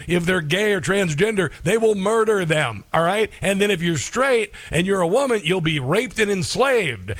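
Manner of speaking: a hint of a naive activist parroting slogans; mocking leftist voice. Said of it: "all of a sudden, out of nowhere".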